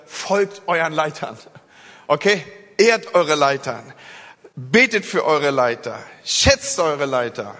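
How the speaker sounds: slow, lightly apostolic exhortation; hint of Paul urging the church, slowly; measured mock-apostle charge. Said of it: "ich komme mir so ein bisschen vor wie Paulus".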